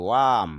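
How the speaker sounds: ওয়াম with a long a; long vowel. Shown as a demonstration. Teacher models the long vowel in ওয়াম. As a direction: stretch ওয়াম. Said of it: "একটু দীর্ঘ sound হবে".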